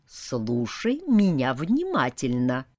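low, slow vampire command. Acted. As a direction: order her low and slow, menacing. Vampire gives orders.

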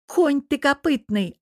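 high, loud, slow furious yell. Acted. Girlfriend screaming at the cheating devil, furious shout. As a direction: scream the insult at him. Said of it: "орала девушка".

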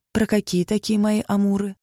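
plain reading voice

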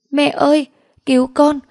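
put-on a little girl howling for her mother; wailing child. A narrator's reading. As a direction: sob and scream for help. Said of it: "gào khóc la hét".

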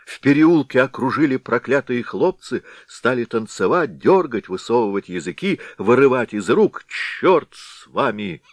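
agitated telling. Acted. Constables excitedly tell their mishap.

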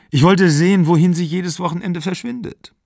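high, loud emotional confession; pressed into a loud, upset admission; agitated outburst. A narrator's reading. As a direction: burst out with it, pitch held high. Cornered woman bursts out confessing.

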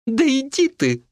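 high, huffy brush-off; playful dismissal. Acted. Wife brushing off her husband, high huffy. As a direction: toss it off high.

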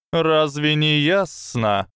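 high, slow hissed question; slow hypnotic serpent hiss. Acted. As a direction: hiss it with scorn. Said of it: "прошипела змея".

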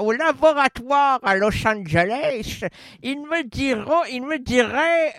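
pen between the teeth; crayon dans la bouche. Shown as a demonstration. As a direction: speak around a pen in the mouth. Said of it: "C'est bien dit avec le crayon dans la bouche". (parler avec un crayon entre les dents)

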